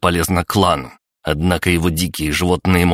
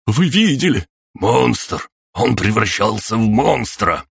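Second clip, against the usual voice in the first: высоко, громко, в ужасе; кричи в панике; испуганный крик; 6 semitones higher than usual. Acted. Испуганные крики толпы. (люди в ужасе кричат о монстре)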